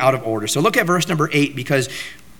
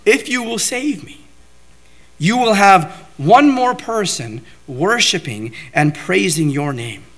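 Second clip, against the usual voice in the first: higher, bargaining tone to God; David offering God one more worshipper, pleading; bargaining plea; 4 semitones higher than usual. Acted. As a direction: bargain earnestly, pitched up. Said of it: "What David is essentially saying is".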